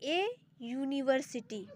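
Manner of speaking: ए यूनिवर्सिटी said slowly and carefully; slow example. Shown as a demonstration. Teacher reading the example slowly. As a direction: draw out ए यूनिवर्सिटी. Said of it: "इसका पहला example क्या है".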